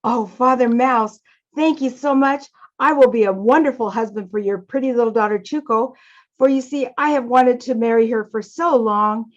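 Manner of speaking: mildly joyful storybook acceptance; happy. Acted. Konezumi thanks Father Mouse for his daughter's hand, happy. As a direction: accept with grateful, understated delight. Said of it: "is so happy. He says".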